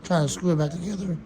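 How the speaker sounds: hoarse, failing voice; losing voice. Real, not acted. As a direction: speak through a voice that's giving out. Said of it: "I'm losing my voice".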